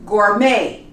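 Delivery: Gourmet ending in "may"; silent T. Shown as a demonstration. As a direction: leave the T off Gourmet. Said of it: "You don't pronounce the T".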